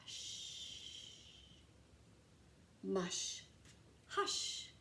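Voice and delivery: soft unvoiced hush; whispered hush, mush, hush; whispering old lady. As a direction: breathe it out like a hushing granny. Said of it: "a quiet old lady who is whispering".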